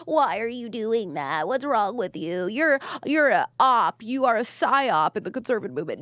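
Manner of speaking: mock-earnest telling-off; mock scolding commenter. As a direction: imitate someone taking it far too seriously. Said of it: "take it so seriously".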